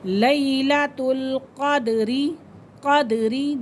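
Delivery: क़द्री with the द bounced off sharply; qalqala on the dal. Shown as a demonstration. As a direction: let the द in क़द्री echo with a short rebound. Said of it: "दाल क्या हो रहा है, कलकला हो रहा है".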